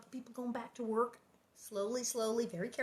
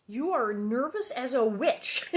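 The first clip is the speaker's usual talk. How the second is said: slow, louder mock quoting of Ma; deliberate requote; 2 semitones higher, 6 dB louder than usual. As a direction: repeat it slowly, marvelling at the odd phrase. Apparently Ma just said.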